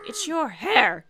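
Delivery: mock outburst. Mike blurting the real grievance.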